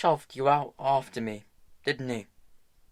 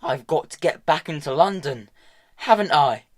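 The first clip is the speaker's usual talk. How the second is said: higher, louder bitter tirade; angry rant; 5 semitones higher, 6 dB louder than usual. A narrator's reading. Hester raging at Tom about Valentine, angry rant. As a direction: vent her fury at him.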